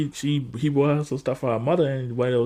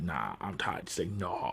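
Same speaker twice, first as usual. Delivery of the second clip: weary sigh; 10 semitones lower, 13 dB quieter, slower than usual. Retold or imitated. Voicing the weary prisoner.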